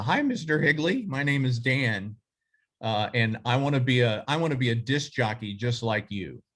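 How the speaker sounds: lightly imitating his nervous fifteen-year-old self; crackly teen voice. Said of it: "with my crackly, pubescent voice".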